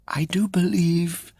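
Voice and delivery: slow, high, whispered accusation; teasing whisper. Acted. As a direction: breathe it like a secret.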